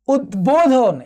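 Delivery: উদ্বোধন said as ud-bodhon, b fully sounded; careful demonstration of the b in উদ্বোধন; b fully pronounced. Shown as a demonstration. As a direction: split উদ্বোধন after the d, then a clear b. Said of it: "এখানেও উচ্চারণ হয়েছে।".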